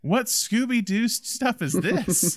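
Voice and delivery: high, slow incredulous mockery; mock outrage at a cartoonish twist; mock disbelief. Mocking the plot twist.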